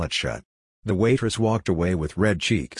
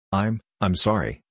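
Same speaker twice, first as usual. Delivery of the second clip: clenched teeth. Acted. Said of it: "said through clenched teeth".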